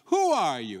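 bold, cocky challenge; defiant, with attitude. Shown as a demonstration. Preacher showing defiance to the mountain, bold attitude. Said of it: "kinda like a defiant with an attitude".

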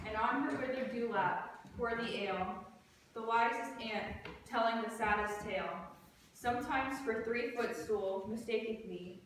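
measured, deliberate verse delivery; stage recitation. Acted. Student performing Puck's speech for class, measured recitation. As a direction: recite line by line, with short pauses.

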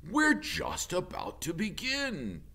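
loud honking goose voice. Acted. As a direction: call out over the crowd like a goose. Loudwing speaks.

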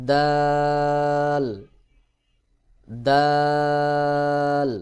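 very slow, stretched দাল on one held note; letter demo. Shown as a demonstration. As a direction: hold দাল long, tongue tip at the upper teeth roots. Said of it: "একই জায়গা থেকে উচ্চারণ হয়". (জিহ্বার আগা দাঁতের গোড়ায়, টেনে দাল)

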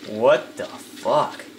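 ordinary talk

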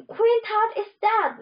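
high-pitched proclamation to a crowd; announcing. A narrator's reading. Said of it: "Neff announced".

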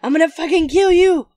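loud, squeaky mock threat; high-pitched hammed-up fury. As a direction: yell it high like a tiny furious dog. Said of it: "In a high-pitched voice".

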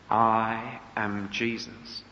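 slow, low, solemn revelation; slow, hushed divine voice; voice of Jesus. Acted. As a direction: announce it very slowly and gravely. Voice of Jesus revealing himself.

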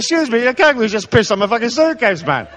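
high-pitched indignant complaint; mock outrage. Traveller complaining about a kangaroo at customs, mock outrage. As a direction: protest in comic disbelief.

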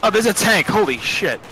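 surprised. Real, not acted. Surprised by enemy tank.

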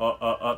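"あ" as an indistinct schwa; short, relaxed "あ" sounds; vague vowel. Shown as a demonstration. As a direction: let the voice out loosely on "あ", uh. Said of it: "曖昧に".

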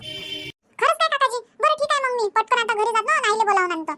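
put-on high boy's voice, cheeky question; small boy bargaining innocently; child asking the vendor; curious child.

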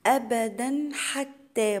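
drawn-out tajweed chant, each syllable held; slow Quran recitation. Shown as a demonstration. Teacher recites the verse to students as a slow chant. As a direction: recite it slowly for the students, holding the long vowels. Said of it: "إظهار حلقي".

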